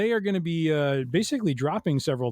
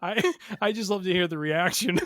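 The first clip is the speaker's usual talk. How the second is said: laughing; 7 semitones higher than usual. Real, not acted. Laughing after being teased.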